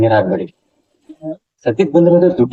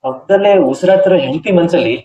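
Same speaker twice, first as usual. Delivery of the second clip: reproachful, poetic speech lifting higher in the middle; impassioned speech; 5 semitones higher than usual. Acted. Younger man confronting his brother about his troubled wife, impassioned speech. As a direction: lecture him earnestly, pitch rising on the big lines. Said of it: "ಈ ಭಾಷಣ ಎಲ್ಲ".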